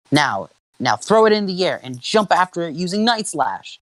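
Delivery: high, urgent trainer's call; battle command. Acted.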